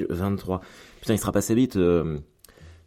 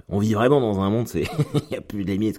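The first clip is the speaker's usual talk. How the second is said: laughing; 3 semitones higher than usual. Real, not acted. Laughing in disbelief.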